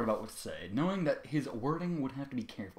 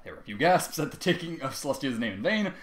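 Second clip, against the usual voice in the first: plain reading voice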